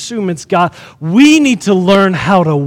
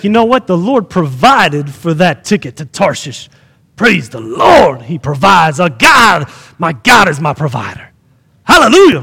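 mock praise; 3 semitones lower than usual. Mocking naive provision belief.

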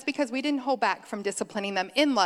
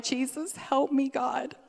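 exasperated plea; 5 semitones higher, slower than usual. Retold or imitated. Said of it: "and you're like".

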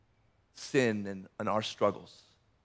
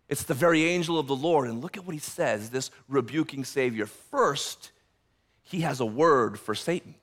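ordinary delivery

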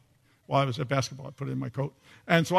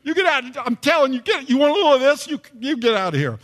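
much higher and louder, jeering bravado from a safe distance; mock tough-guy taunting; 9 semitones higher, 7 dB louder than usual. Retreating gang friends jeer back, hammed-up loud taunt. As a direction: crow like a punk who just got rescued. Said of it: "which, of course, I think would say".

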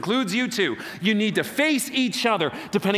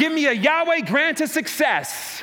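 rallying call; 7 semitones higher than usual. Real, not acted. Pastor asks the crowd to echo, high rallying shout. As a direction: whip the crowd up to shout it back.

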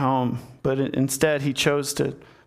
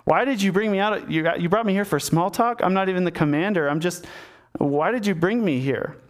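acted puzzled protest, pitched up in the middle; mild bafflement; 3 semitones higher than usual. Uriah asking David why he was summoned, mildly baffled. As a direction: question it with a touch of disbelief, faltering.

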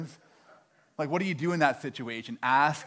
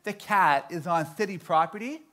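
lightly voiced official reciting a rule; measured, slightly higher clerk's voice; imitating phone clerk; 3 semitones higher than usual. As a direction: recite policy carefully, with a hint of officialdom. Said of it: "the lady on the phone said".

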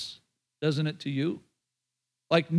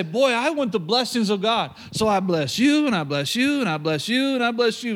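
mock blessing; 3 semitones higher than usual. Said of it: "Now, if you just say".

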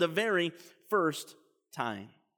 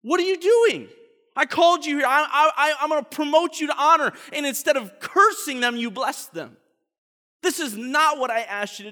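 high, loud indignant shouting; the king yells at the prophet who blessed them; outraged king; 6 semitones higher, 5 dB louder than usual. Acted. Balak furious at Balaam.

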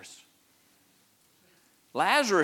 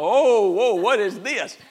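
loud, high mock alarm; claustrophobic panic; 8 semitones higher, 12 dB louder, slower than usual. Preacher plays Lazarus waking wrapped in the tomb, mock panic. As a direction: cry out as if suddenly wrapped up tight. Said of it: "the claustrophobia kicks in".

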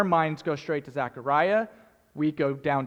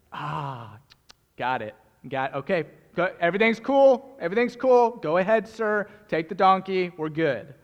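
hasty, eager backing down; smooth it over quickly; flustered owner. Acted. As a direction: owner hurriedly letting the disciples take the donkey.

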